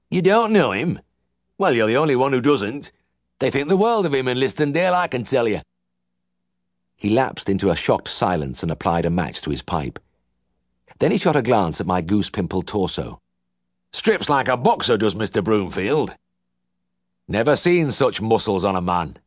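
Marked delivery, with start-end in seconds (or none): 0.1-5.6 high, scandalized Yorkshire twang; can't believe his ears; aghast old farmer. A narrator's reading. Uncle shocked the vet doesn't know his vet, high twang. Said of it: "Uncle was aghast". 13.9-19.2 higher Yorkshire twang, sly dig; admiring old farmer. A narrator's reading. Uncle eyeing the vet's torso, sly high twang.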